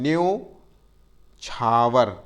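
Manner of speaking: न्योछावर drawn out very slowly, न्यो clear; slow spelling-out. Shown as a demonstration. Teacher to class, slowly giving the right word. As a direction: stretch न्योछावर for dictation. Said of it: "न्यौछावर नहीं होता".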